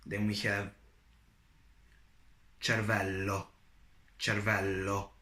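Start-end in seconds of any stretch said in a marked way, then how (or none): 2.6-5.1 "cervello" with a long, held double L. Shown as a demonstration. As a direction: linger on the L's in "cervello". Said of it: "there are two L's".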